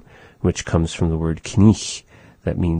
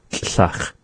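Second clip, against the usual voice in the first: whispered model word; 4 dB quieter than usual. Shown as a demonstration. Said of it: "she would use the word tlach".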